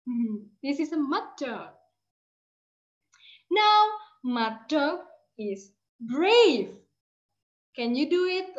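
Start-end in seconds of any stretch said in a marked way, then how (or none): 3.5-6.7 slow, sing-song storytelling; slow sing-song read. Shown as a demonstration. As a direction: lilt it slowly for children. Teacher modelling sentence to class.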